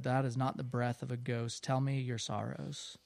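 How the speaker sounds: a quiet, understated voice of a great being; large deep voice. A narrator's reading. Unseen thing asks the boy for his sorrows, large and quiet. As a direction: softly read large voice. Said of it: "very large and deep".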